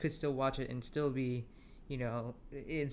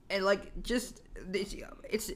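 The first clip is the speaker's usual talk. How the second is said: after laughing hard; 6 semitones higher than usual. Real, not acted. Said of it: "I can't even speak".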